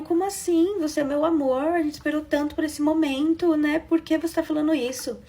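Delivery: retelling her stunned plea to her husband; shocked pleading. Retold or imitated. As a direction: protest to him, stunned and hurt. Bride protesting to new husband.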